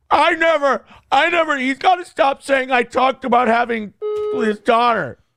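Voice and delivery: high-pitched, whingy, complaining whine. Speaker retelling what a man said, mimicking a whiny voice. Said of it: "he was whining today with that whingy voice".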